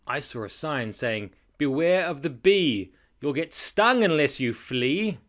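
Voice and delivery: lilting rhymed storytelling; children's story narration. A narrator's reading. Reading a rhyming bee tale to children, animated storytelling. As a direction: swell on the danger, drop for suspense.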